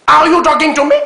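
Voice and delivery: put-on loud, high De Niro line in a Martinique French accent. Host mocking a guest's De Niro impression, in a loud, high Martinique accent. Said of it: "C'est la voix martiniquaise de De Niro".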